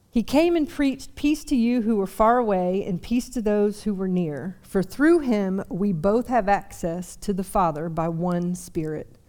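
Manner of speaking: steady, measured Bible reading; scripture reading. Acted. Pastor reading Ephesians aloud to the congregation, measured. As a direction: read the passage with care.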